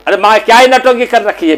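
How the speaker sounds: mildly irritated complaint; exasperated son. Acted. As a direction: scold her for putting on an act. Son accuses mother of play-acting.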